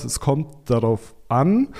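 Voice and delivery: slow, measured lawyerly hedge; lawyer's answer. Shown as a demonstration. Guest hedges on expected sales, slow mock lawyer answer. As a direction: say it like a cautious lawyer dodging. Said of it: "ich gebe jetzt mal so eine Anwalt-Antwort".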